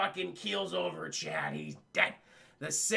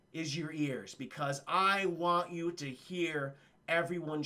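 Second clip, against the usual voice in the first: menacing threat. Retold or imitated. Wesley's slow threat speech.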